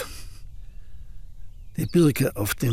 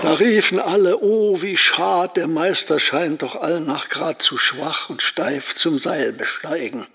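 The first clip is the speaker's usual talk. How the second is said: raised, lively recital of the crowd's cry; poem recital; 2 semitones higher than usual. Acted. Old painter keeps reciting the poem, crowd lines raised. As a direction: recite the crowd's lament with relish.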